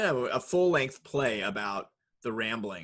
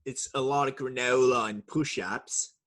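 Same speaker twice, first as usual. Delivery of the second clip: Chris Hemsworth impression. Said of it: "That was a very unsexy version of Chris Hemsworth".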